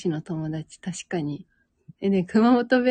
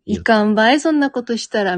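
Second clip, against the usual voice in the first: いかんばい, louder, in light Hakata dialect; 2 semitones higher, 6 dB louder than usual. Shown as a demonstration. Imitating a childhood friend's Hakata scolding, light dialect. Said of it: "みたいな感じ".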